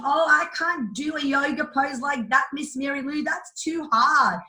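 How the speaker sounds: put-on child whining that the yoga pose is too hard; whiny child. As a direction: play the four-year-old who gives up. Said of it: "When they tell me".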